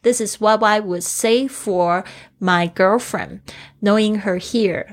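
put-on This is what I would say for my girlfriend read slowly, with "this" carrying the stress; slow model reading. Shown as a demonstration. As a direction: read slowly and evenly for learners. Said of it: "所以他用say for". (慢速示范朗读这句)

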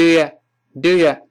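"Do you" said as "d'ya"; reduced "Do you", drawn out for demonstration; weakened vowel. Shown as a demonstration. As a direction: let "you" reduce to a loose "ya". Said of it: "那个you又读不清了".

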